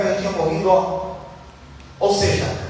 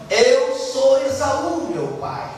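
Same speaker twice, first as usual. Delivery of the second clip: slow lying son; 4 semitones higher, much slower than usual. Retold or imitated. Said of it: "E ele fala assim".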